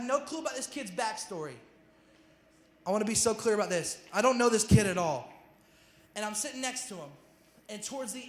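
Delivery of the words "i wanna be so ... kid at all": louder, punching each word of the point; forceful preacher emphasis; emphatic loud preaching. Real, not acted. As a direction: drive it home hard to the congregation.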